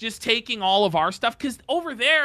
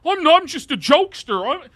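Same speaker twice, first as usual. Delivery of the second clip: a mildly whiny mock of the streamer, a bit higher and louder; mocking imitation; 7 semitones higher, 5 dB louder than usual. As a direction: imitate him with a sneer, half-joking. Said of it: "He's malding here".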